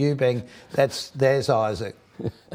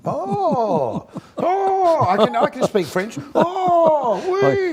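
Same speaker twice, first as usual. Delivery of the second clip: mock excitement; 4 dB louder, much slower than usual. Host mock-celebrating speaking French.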